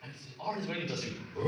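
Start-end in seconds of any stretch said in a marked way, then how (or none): 1.3-1.4 lion brr. Shown as a demonstration. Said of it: "You look like a lion".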